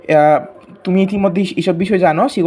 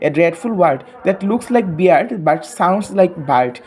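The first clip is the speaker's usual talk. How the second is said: slow, deliberate poem reading for pupils; much slower than usual. Acted. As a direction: read the verse slowly so the class can follow. Reads poem line to class. (ধীরে ধীরে কবিতা পড়া)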